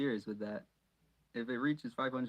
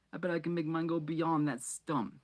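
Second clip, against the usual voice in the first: Fred voice; 5 semitones higher than usual. Acted.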